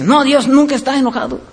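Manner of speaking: quick mimicry of naive objectors; imitated objectors. Preacher quotes people denying God's anger, quick mimicked objection. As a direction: rattle it off as other people's claim. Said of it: "hay gente que dice".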